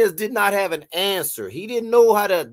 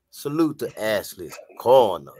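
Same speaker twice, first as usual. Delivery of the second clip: deep voice, much lower and slower; 11 semitones lower than usual. The speaker gives a shout-out to Ashley's corner, in a deep voice. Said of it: "I gotta say that with a deep voice".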